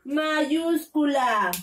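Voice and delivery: "mayúscula" said slowly and drawn out; stretched word. Shown as a demonstration. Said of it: "se empieza con".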